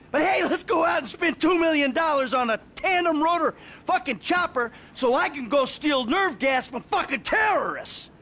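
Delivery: sarcasm. Acted. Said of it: "sarcasm is all I fucking got".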